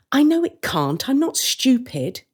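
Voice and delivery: defensive. Acted. Sister defending herself to her brother, indignant. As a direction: bristle at being doubted.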